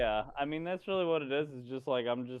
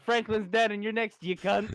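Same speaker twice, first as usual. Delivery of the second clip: put-on snarling Scottish accent threat, higher; 7 semitones higher, 5 dB louder than usual. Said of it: "the Scottish accent from that one TikTok".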